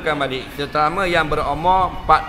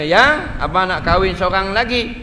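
sweet-talking husband; 4 semitones higher, 3 dB louder than usual. Retold or imitated. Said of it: "dia akan bertanya".

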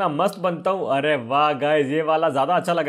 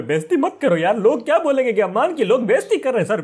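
embarrassed protest; 5 semitones higher than usual. Acted. Begs boss not to shame him.

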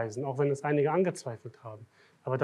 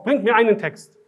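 mocking the sheikh; 6 semitones higher, 9 dB louder than usual. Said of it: "Und fordert auch auf".

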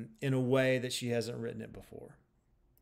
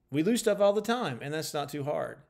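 ordinary talk, nothing marked

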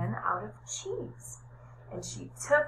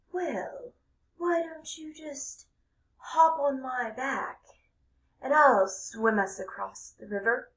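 sly fox; 5 semitones higher than usual. Acted. Sly fox offers a ride.

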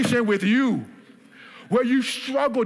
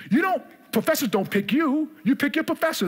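raised, emphatic preaching; preaching shout; 6 semitones higher than usual. Acted. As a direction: hammer the point home to the congregation.

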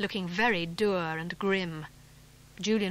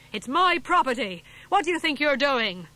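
louder, higher outraged protest; angry shout; 5 semitones higher, 6 dB louder than usual. Acted. Governor yelling at the farmer over his property, furious. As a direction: yell it, beside himself with fury. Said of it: "he shouted".

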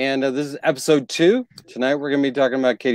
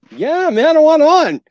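eager dude voice; 10 semitones higher, 6 dB louder than usual. Retold or imitated. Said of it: "everybody's like".

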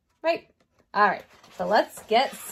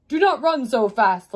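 mildly raised storybook call; 6 dB louder than usual. Acted. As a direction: call after a runner, lightly acted.

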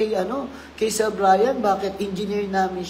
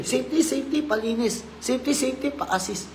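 mock engineer calling; 5 semitones higher, 3 dB quieter than usual. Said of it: "makakita ng dumi si engineer".

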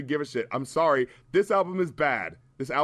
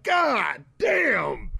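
mock shout; 4 semitones higher than usual. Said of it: "He was like".

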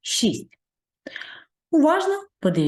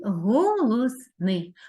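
slow, drawn out; much slower than usual. Shown as a demonstration. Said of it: "І останній звук".

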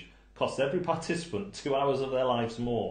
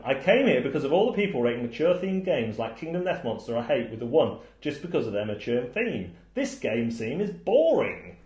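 reading a reviewer's comment; 3 semitones higher, 4 dB louder than usual. Retold or imitated. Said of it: "this person is coming".

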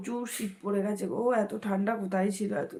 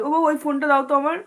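calling out; 4 semitones higher, 7 dB louder, much faster than usual. Real, not acted. Calling out for the phone.

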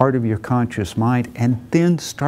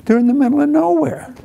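much higher, leaning on nowhere; emphatic narration; 13 semitones higher, 3 dB louder than usual. A narrator's reading. Storyteller telling listeners where they ended up, emphatic. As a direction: paint how remote it is. Narrator stressing remote spot.

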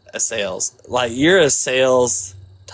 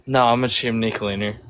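put-on Southern accent; 3 semitones lower than usual. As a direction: lay on a Georgia Southern accent. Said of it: "I got that southern accent".

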